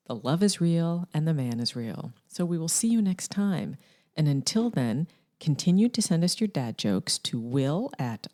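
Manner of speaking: smooth sign-off announcer read; infomercial voice. Acted. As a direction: sell the show like an ad. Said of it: "let me get back to my infomercial voice".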